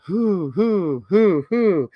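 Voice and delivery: rounded, swooping hoots; owl hooting. Acted. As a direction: hoot like an owl. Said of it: "He can sound like an owl".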